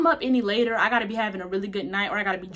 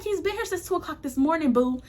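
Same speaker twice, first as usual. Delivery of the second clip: laughing tease; 5 semitones higher than usual. Retold or imitated. Teasing sister by text, laughing.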